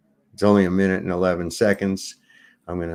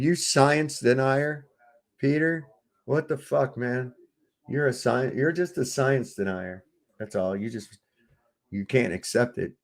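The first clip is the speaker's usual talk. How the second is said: hammed-up lecture to a science denier; mock science rant. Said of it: "I can't even say that with a straight face".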